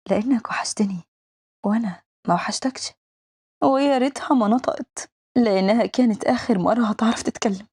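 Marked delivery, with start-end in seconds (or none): 0.1-2.9 soft, breath-only whisper. A narrator's reading. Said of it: "بتقرب بهمس". (همس خافت)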